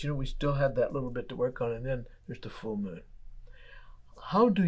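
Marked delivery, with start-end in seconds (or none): 1.7-3.0 hushed, breathy reveal of the full moon; softer, awed whisper. Acted. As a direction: drop to a whisper for the payoff. Building the moon image to climax.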